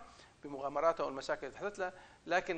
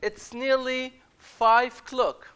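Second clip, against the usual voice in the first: called announcement; 7 semitones higher, 8 dB louder, slower than usual. Acted. Guide calling the boys.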